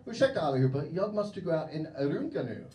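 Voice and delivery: broken Swedish. Retold or imitated. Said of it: "use a little Swedish".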